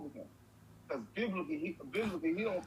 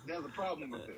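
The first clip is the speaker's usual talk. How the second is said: unvoiced deadpan whisper; hushed deadpan; 5 dB quieter than usual. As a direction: breathe it dryly.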